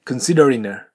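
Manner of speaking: "considering a" said as "consideri-na" with the G dropped. Shown as a demonstration. Teacher showing students the dropped G. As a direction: drop the G and link "considering" into "a". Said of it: "Gが、飛ばされて".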